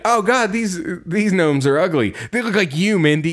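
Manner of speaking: high, taunting big-brother jeer; mocking the sister, Mindy, in a high jeer. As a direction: tease his sister mean and high. Mocking his sister's ugly gnomes.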